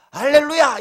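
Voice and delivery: 높고 크게 외치는 감격 흉내; 기뻐 날뛰듯 할렐루야를 외치는 시늉. Retold or imitated. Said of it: "이렇게 한 게 아니고". (벅찬 환호 시늉)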